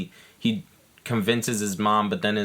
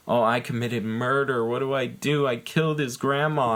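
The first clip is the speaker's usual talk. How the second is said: mock panicky babble, climbing higher; half-hearted nervous rant, rising pitch; nervous tirade; 4 semitones higher than usual. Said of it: "like, nervous tirade where".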